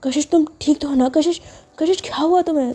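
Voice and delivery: high, worried calling; alarmed concern for her; a touch of panic; panicked. Acted. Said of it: "Hina घबरा जाती है".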